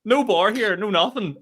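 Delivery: high, loud astonishment; astonished. Retold or imitated. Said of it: "And, like".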